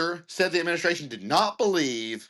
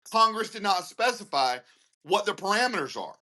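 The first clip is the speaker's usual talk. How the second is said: mock administration voice; 5 semitones higher than usual. Voicing the administration's reasoning.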